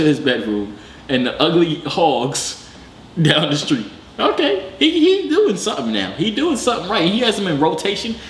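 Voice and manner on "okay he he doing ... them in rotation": excited. Real, not acted. Reacting to the polygamist's setup.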